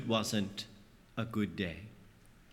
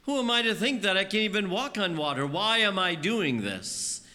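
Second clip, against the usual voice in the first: doubting panic; 3 semitones higher, faster than usual. Acted. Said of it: "we begin to think to ourselves".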